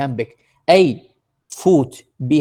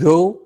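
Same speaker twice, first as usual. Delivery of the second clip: "go" said as a heavy stressed beat; "go" stressed and emphatic; stressed syllable; 4 dB louder than usual. Shown as a demonstration. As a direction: put full weight on "go". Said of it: "إذن واحد مشدد".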